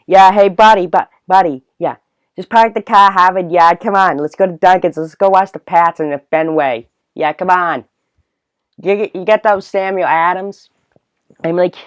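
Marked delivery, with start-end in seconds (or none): 0.1-10.7 loud, high hammed-up Boston accent; over-the-top Boston buddy, raised pitch and volume; Boston character voice. Shown as a demonstration. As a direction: shout like a Bostonian caricature. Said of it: "character voice".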